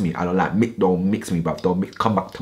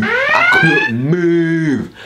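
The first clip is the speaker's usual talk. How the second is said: dramatic slow; 7 semitones higher, 5 dB louder, much slower than usual. Retold or imitated. Dramatic slowed emphasis.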